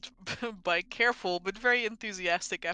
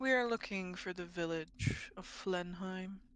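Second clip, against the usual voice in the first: calm and cool, soft-spoken, evenly delivered; 6 dB quieter than usual. A character interjects after the blonde man speaks, in a cool voice. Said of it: "In a cool voice, they say".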